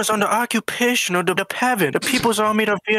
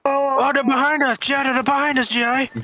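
put-on higher, urgent warning in a Vietnamese accent; alarmed warning; 4 semitones higher than usual. Scout spotting enemies behind, alarmed. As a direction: warn the GI urgently.

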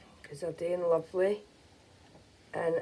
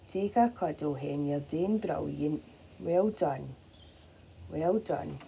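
gently calm a nervous mother hen; soothing. Real, not acted.

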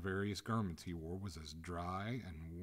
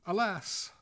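high, loud wail of dismay; anguished exclamation; crying out; 13 semitones higher, 11 dB louder than usual. A narrator's reading. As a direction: cry out in despair. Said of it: "cried the ghost".

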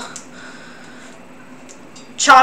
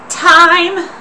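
put-on old lady voice; 4 semitones higher, slower than usual. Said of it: "I'm losing my old lady voice real hard".

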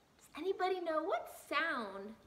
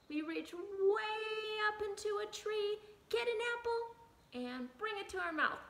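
put-on broad singsong kids theatre; 7 semitones higher than usual. Shown as a demonstration. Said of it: "we have emotion".

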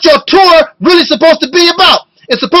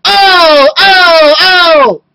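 mock crying; slower than usual. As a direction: ham up a crybaby's wailing complaint. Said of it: "He's always crying".

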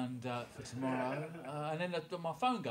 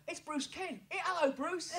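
higher, laughing mock excitement; half-laughing "hey, it's him!"; excited spotting; 9 semitones higher, 8 dB quieter than usual. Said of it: "I was going".

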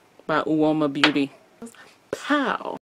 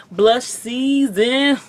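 slow, booming announcer drawl; radio announcer voice; 7 semitones higher, 5 dB louder, much slower than usual. Shown as a demonstration. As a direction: say it like a radio promo. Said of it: "that radio voice that be like".

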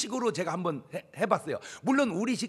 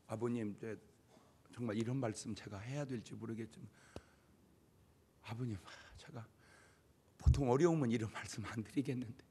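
hesitant polite request; 8 semitones lower, 7 dB quieter than usual. Retold or imitated. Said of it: "이렇게 기도하는 자식은".

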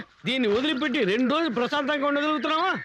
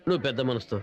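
humble apology; 12 semitones lower than usual. Acted.

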